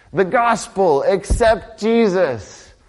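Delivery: high, slowed-down "accept Jesus"; imitating churchgoers, sing-song; mock preachy pitch. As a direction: parody a glib evangelist. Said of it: "we tell people".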